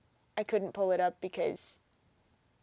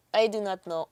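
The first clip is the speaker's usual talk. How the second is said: mock Russian, stiffly said; bad Russian accent. Streamer answering himself on stream, bad Russian accent. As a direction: put on a poor Russian accent. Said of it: "It's a really bad Russian accent".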